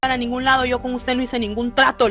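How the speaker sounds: put-on high, urgent protest of a grabbed child; acting out a boy yelling to be let go; retold frightened shouting. The boy resists the duende dragging him away, mock shouting. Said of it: "se empezó a gritar".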